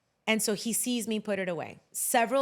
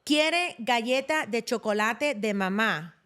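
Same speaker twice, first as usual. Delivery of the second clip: put-on frustrated toddler; 2 semitones higher, slower than usual. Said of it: "sigh, like, frustrated".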